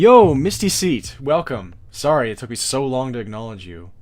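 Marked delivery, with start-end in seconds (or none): 0.0-1.7 loud, much higher and slower voice. Welcoming someone after taking long to acknowledge them, in a loud voice. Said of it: "that was also probably a loud voice".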